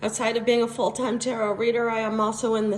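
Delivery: lost voice, rough and strained; hoarse voice. Real, not acted. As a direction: talk through a hoarse, worn-out throat. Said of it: "and I have no voice".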